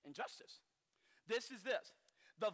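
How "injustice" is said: breathy whisper on "Injustice". Shown as a demonstration. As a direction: hush "Injustice" to nothing. Repeats word, second whispered.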